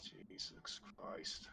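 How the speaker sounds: unvoiced "Jesus Christ"; whisper. Real, not acted. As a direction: breathe it as a whisper. Whispered disbelief.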